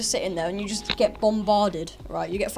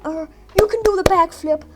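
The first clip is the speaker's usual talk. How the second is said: cheesy American coach; 10 semitones higher, 7 dB louder than usual. Retold or imitated. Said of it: "P E teachers there, they're just like".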